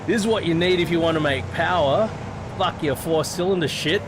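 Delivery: half-shouting it like a proud bragger; retold yell. Retelling the guy yelling at his car, mild mock yell. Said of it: "he yells out".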